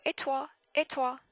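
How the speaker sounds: "toi" with a puff of air on the T; high "et toi" with an aspirated T; airy Parisian T. Shown as a demonstration. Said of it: "like you're pushing air out of your f-, mouth".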